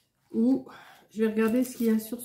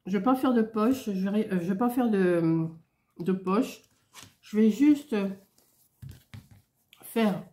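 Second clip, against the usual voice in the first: talking around a candy in the mouth; words shaped round a sweet on the tongue; sucking a sweet. Real, not acted. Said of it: "j'ai un bonbon dans la bouche". (parle avec un bonbon dans la bouche)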